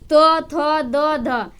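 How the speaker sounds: तो थो दो ध, each said with the tongue touching the teeth; dental consonant demo. Shown as a demonstration. Teacher reciting the dental series to the class. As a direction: sound out तो थो दो ध one by one. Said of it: "दंत है".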